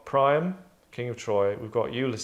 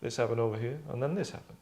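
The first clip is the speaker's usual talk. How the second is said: offhand; 6 dB quieter, faster than usual. Retold or imitated. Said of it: "He's a bit like that".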